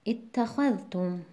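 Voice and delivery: اتخذتم with the stress on the syllable خا, said slowly; slow teaching stress on خا. Shown as a demonstration. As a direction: lean on خا in اتخذتم.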